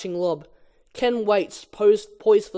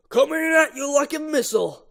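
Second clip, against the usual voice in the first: higher, swaggering call; cocky boast; 9 semitones higher than usual. Acted. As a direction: brag as you hit it. Ken boasting mid-rally.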